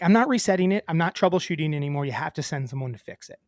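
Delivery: exasperated customer refusing to cooperate, retold; retold firm refusal. Retold argument with internet company.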